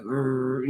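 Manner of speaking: imitating his put-on deep voice with a growl; deep growl imitation. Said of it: "this really deep voice".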